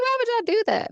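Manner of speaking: mock outraged squeal; retold mad. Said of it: "I was so mad".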